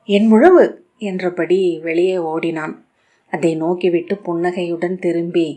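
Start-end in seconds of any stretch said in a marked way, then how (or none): 0.1-0.7 loud excited shout. A narrator's reading. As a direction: shout it while dashing out. Child runs off shouting.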